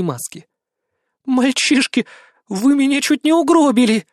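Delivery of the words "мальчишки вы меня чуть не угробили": higher, louder, half-groaning; moaning reproach. A narrator's reading. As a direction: scold them, still shaken. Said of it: "простонала Светлана".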